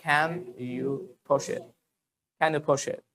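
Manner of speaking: Can you push it with a puff of air on c and p; aspirated English t k p. Shown as a demonstration. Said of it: "But you have to say". (Can you push it में क में हल्का ख, प में हल्का फ)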